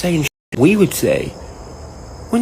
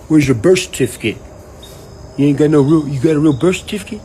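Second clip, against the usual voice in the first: louder, challenging president quote; mock demanding president; 4 dB louder than usual. President calling out his predecessor, loud and challenging. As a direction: bark the question at the old president. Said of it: "was like".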